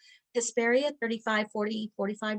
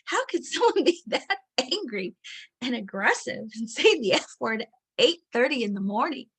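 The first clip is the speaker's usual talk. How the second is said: amazed disbelief; 2 semitones higher, 4 dB louder than usual. Retold or imitated. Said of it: "Walking around my coffee going".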